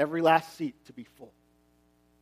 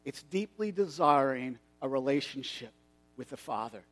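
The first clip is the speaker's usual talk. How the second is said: much softer, hushed; solemn hush; 4 semitones lower, 8 dB quieter than usual. Acted. Jesus giving the moral of the story, hushed. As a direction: drop to a reverent hush.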